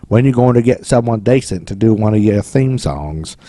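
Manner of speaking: a bad mock English accent on the drunk quote; half-hearted British accent, barely there; terrible English accent. Bad English accent on the rock star's drunken question. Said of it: "That's a terrible English accent".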